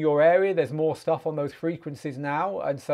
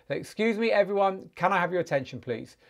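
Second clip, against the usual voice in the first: calling for attention; 4 semitones higher than usual. Shown as a demonstration. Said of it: "get everyone's attention before you say".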